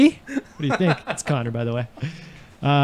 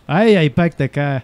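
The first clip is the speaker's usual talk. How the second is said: put-on Boston accent; 2 semitones lower than usual. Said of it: "genuine Boston".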